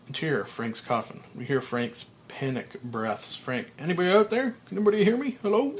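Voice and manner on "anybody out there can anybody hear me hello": high, loud cries for help; desperate calling. Acted. Frank buried, calling up to anyone, high loud cries. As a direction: yell to anyone outside.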